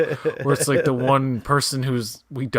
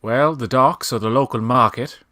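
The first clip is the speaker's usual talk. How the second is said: put-on Mid-Atlantic accent; 4 dB louder than usual. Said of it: "That's how you talk normal".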